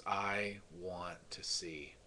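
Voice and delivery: slow whisper; a hushed, slow whispered request; whispered plea. Retold or imitated. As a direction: breathe the words slowly as a hushed plea. Blind man answers Jesus.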